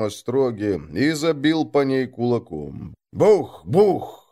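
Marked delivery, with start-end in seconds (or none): 3.1-4.3 стук в дверь. A narrator's reading. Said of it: "отбивали костяшки по дереву".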